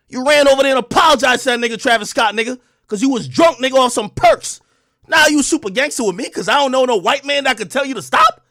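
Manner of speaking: loud, heated call-out; heated rant at a rival rapper, loud and indignant; angry rant. Real, not acted.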